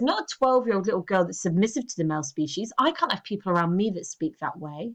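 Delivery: normal talking voice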